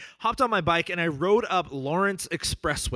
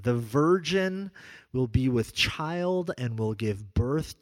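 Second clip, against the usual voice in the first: slow, measured reading of scripture; solemn scripture reading; slower than usual. Acted. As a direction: read the prophecy slowly, with weight. Reads Isaiah prophecy aloud.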